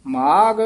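ਮਾਗ held, then a slight halt; long ਮਾਗ with a small pause after; brief yamak pause. Shown as a demonstration. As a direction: set ਮਾਗ apart from what follows. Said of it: "ਇੱਥੇ ਵੀ ਯਮਕ ਦੇ ਦੇਣੀ ਹੈ".

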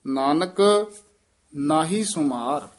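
ਨਾਨਕ set apart with a short stop before ਨਾਹੀ ਸੁਮਾਰ; teacher shows the student the stop after ਨਾਨਕ. Shown as a demonstration. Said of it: "ਨਾਨਕ ਪਦ ਤੇ ਯਮਕ ਲਾ ਦੇਣੀ ਹੈ".

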